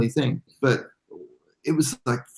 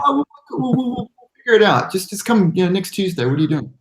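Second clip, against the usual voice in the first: quoted caller; 7 semitones higher than usual. Retold or imitated. Retelling a phone call quote.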